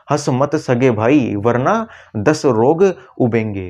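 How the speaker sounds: slow, deliberate delivery; slow mnemonic line. Shown as a demonstration. Teacher slowly repeating the mnemonic for the class. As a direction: spell out the warning slowly. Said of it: "कोई तीसरा बंदा आपको बोल रहा है".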